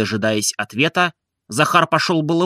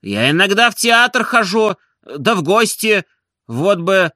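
irritated excuse; 8 semitones higher, slower than usual. A narrator's reading. Барин оправдывается раздражённо.

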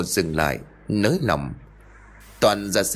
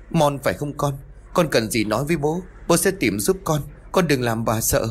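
higher, hurried anxious coaxing; 5 semitones higher than usual. Acted. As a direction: coax your dead son to stop. Father calls to ghost son. (giọng người cha lo lắng dỗ dành, cao giọng)

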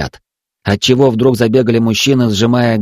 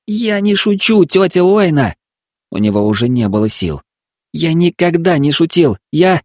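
put-on high, earnest boy's voice; insisting child; 7 semitones higher than usual. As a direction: insist you're not joking. Boy insisting.

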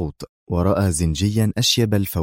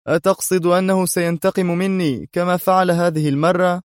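mocking; 10 semitones higher than usual. A narrator's reading. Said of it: "ساخرة وقال".

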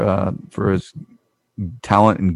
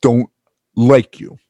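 put-on Minnesota accent; 3 semitones higher, 4 dB louder, slower than usual. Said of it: "In your best Minnesota accent".

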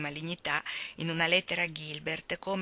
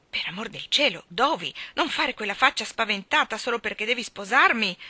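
impatient; 3 semitones higher, 5 dB louder than usual. Acted. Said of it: "disse con insofferenza".

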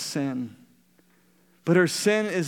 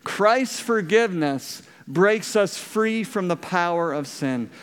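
slow unison recital; slower than usual. Shown as a demonstration. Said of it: "Can you say it with me?".

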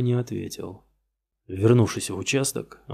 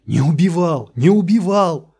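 rising shout, much higher, cracking; voice breaking; 8 semitones higher, 9 dB louder than usual. Acted. Suspect losing control in front of the detective, voice breaking. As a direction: scream until the voice breaks. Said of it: "Его голос сорвался".

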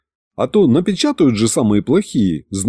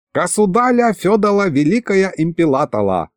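put-on higher, accented merchant greeting, r as l; exaggerated Asian accent, l for every r; 6 semitones higher than usual. Dry Asian merchant hailing the king in broken Russian accent.

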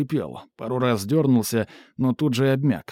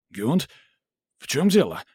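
nervous, shaky plea; frightened manager losing his nerve; rattled fear; 3 semitones higher than usual. A narrator's reading. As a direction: voice rattling like a tin can. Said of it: "Голос его задребезжал".

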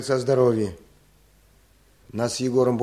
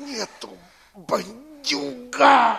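higher, very slow anguished cry; pained cry; 11 semitones higher, much slower than usual. Acted. Beaten peasant cries defiance at the robber, anguished. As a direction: cry it out through the pain.

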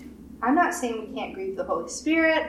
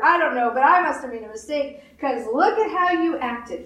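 a hint of a disappointed judge, quick and higher; mock doubtful God; 5 semitones higher, 3 dB louder, faster than usual. Preacher imitating a doubting God to the congregation, mocking. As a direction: lightly play a God who second-guesses Peter. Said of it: "He didn't go".

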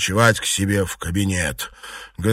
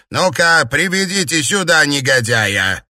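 loud, raised command; outraged summons, pitched up; angry shouted order; 4 semitones higher, 3 dB louder than usual. A narrator's reading. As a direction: demand it with indignation. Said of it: "закричала матушка Дзя".

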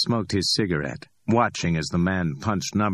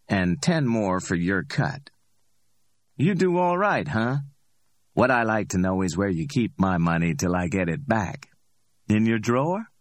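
cocky Ordell; 3 semitones higher than usual. Acted. Ordell speaks.

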